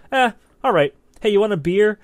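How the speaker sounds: high, loud, offhand mobster shrug; mafia guys' voice. Retold or imitated. Mafia thugs easing off a beaten man, offhand mobster voice. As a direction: toss it off like a bored mob heavy.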